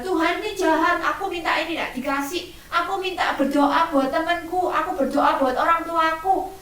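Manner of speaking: mock sulky child complaint; grumbling child. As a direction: nag at God like a cross kid. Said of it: "kalau doa terus ngomel-ngomel".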